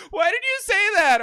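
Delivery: high, loud wail of protest; hammed-up hurt little-kid cry; mock upset child. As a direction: imitate a tearful niece protesting. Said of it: "She got upset. She started crying".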